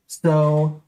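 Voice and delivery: talking while chewing; words around a bite of pizza; mouth full. Real, not acted. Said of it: "Sorry that I'm chewing".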